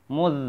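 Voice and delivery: "muz" with a held buzzing z; doubled za. Shown as a demonstration. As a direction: close "muz" firmly on the z. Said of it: "Mu-nya ketemu za bertasydid".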